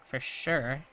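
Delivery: ordinary talk, nothing marked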